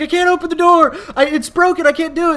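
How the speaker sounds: high, loud frantic protest; desperate yell. Retold or imitated. Friend yelling back at the cop, frantic shout. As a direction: shout back that the door won't open.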